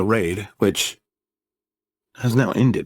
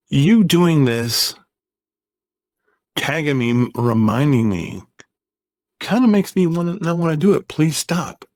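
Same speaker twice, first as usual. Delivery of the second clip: agitated retort; 4 semitones higher than usual. Retold or imitated. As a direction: push back, fed up with the nagging. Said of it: "I got agitated".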